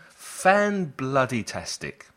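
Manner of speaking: slow, playful London "fan-bloody-tastic"; London slang. Shown as a demonstration. Teacher jokingly mimicking Londoners, slow and playful. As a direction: drawl "fan-bloody-tastic" with mock Cockney relish. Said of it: "as they say in London".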